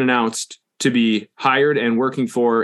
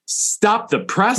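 put-on old newsroom editor; 10 semitones higher, much slower than usual. Mock newsroom bulletin.

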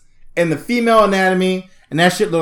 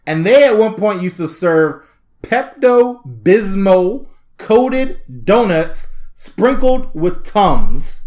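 normal talking voice

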